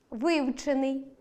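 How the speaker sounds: вивчений with stress on ВИ; stress on the prefix. Shown as a demonstration. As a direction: lean on ВИ in вивчений. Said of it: "наголос на префіксі". (наголос на префіксі: вИвчений)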